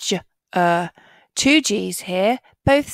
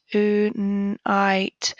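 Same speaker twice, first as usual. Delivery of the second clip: whisper. Shown as a demonstration. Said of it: "whispered repeat of word".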